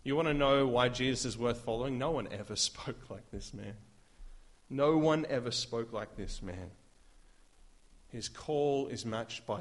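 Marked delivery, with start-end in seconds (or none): 2.0-3.8 laughing delight. Real, not acted. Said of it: "Some of my favorite words".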